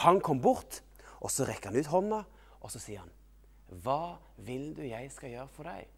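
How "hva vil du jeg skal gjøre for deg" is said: gentle asking. Acted. Voices Jesus asking blind man.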